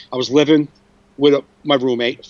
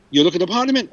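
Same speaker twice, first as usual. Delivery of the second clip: imitated Italian landlord, higher-pitched question; Italian accent; 5 semitones higher, faster than usual. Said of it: "maybe a very thick Italian accent".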